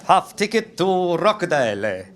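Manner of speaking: put-on nervous migrant boy reciting his bus fare; timid newcomer. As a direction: say it slowly, straining to get the English right. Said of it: "like a little wog".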